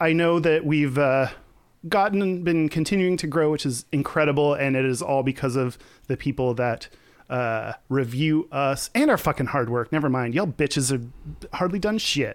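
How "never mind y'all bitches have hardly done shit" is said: fake-angry, snarky outburst. Thanking listeners for reviews, then turning on them: mock angry rant. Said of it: "I moved into angry mode".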